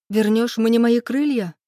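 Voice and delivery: high, heated blurted question. A narrator's reading. Woman cutting off her lover's promise, blurting a challenge. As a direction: burst out with it, climbing in pitch. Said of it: "выпалила я".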